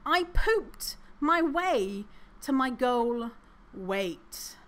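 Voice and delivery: slow, drawn-out read of "I pooped my way"; mock ad slogan, slow and pointed. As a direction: savour each word of the ad. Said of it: "which reads".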